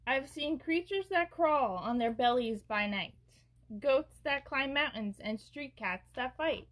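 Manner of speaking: measured, lilting storybook read; picture-book reading. A narrator's reading. Host reads an uplifting rhyming book aloud, storybook narration. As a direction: read the rhyme with a gentle swing.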